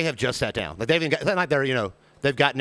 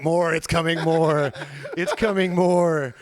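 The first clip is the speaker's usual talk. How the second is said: mock strained; much slower than usual. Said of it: "you're like".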